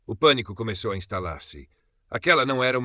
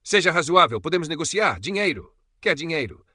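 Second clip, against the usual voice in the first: high, raised voice, bargaining; shouted appeal; 8 semitones higher, 7 dB louder than usual. A narrator's reading. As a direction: call out an offer into the dark. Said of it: "gritou Carvalho, a voz a ecoar".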